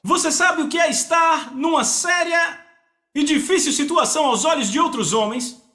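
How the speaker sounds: normal talking voice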